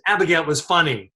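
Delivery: imitated back-and-forth argument; retold arguing. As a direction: insist on it, as in a retold squabble. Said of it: "they're all arguing about whether it was funny".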